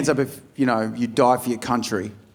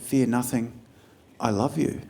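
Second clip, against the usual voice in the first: soft tender; 7 dB quieter than usual. Retold or imitated. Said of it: "I said".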